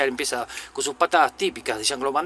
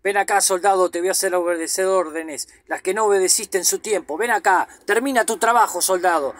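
higher, louder barked orders from outside; sergeant yelling; 4 semitones higher, 5 dB louder than usual. Retold or imitated. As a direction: yell it like a drill sergeant calling a soldier out. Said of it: "y él le grita de afuera".

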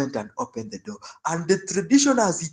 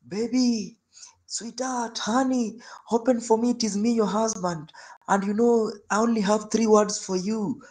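high, coaxing pleading through the door; sweet-talking husband; 6 semitones higher than usual. Retold or imitated. Drunk husband pleading with locked-out wife, high and coaxing. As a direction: coax your wife to open up.

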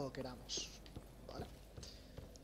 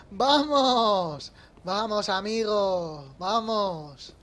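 cheering; 2 semitones higher, 6 dB louder, much slower than usual. Real, not acted. Cheering at the bonfire.

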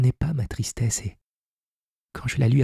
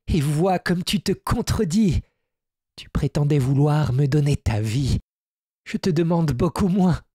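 higher-pitched fairy voice, reproachful; fairy Zia; 6 semitones higher than usual. Acted. The fairy reproaching Hermann for backing down, in a higher voice.

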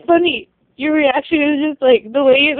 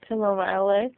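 teasing whisper; 4 semitones lower, 5 dB quieter, faster than usual. Real, not acted. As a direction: breathe it out unvoiced. Teasing back-and-forth repeat.

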